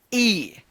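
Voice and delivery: ई said alone as one long "ee"; long ee sound. Shown as a demonstration. Teacher answers what the sound will be, a clean lone ई "ee". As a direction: model ई by itself after a small pause. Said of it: "तो इसका उच्चारण होगा".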